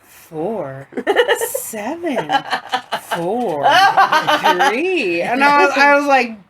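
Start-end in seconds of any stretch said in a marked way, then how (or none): 0.0-5.2 a new automated reader voice; different robot voice. Retold or imitated. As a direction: read digits like a machine. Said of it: "a different voice that's reading it".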